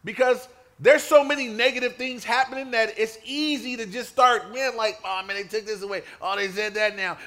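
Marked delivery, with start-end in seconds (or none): 5.0-7.2 mock whining complainer. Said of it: "and we sound like that".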